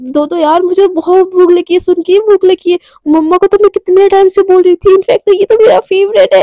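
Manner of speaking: excited schoolgirl over her favourite dish. Acted. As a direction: bubble over about the food. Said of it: "एकदम नाचने लगती".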